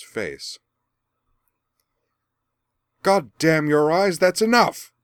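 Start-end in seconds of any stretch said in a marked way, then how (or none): 3.0-4.9 furious full-throated bellow, much higher and louder; thundering roar. Acted. Merwin thunders at Azula after the slap, bellowing. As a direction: roar it down at the patient. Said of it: "Merwin thundered in full-throated Welsh".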